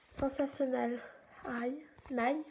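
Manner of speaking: brand name stumbled out in heavy French-accented English; clumsy English accent. Real, not acted. Nail tutorial host reading an English brand, heavy French accent. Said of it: "mon accent toujours nul en anglais".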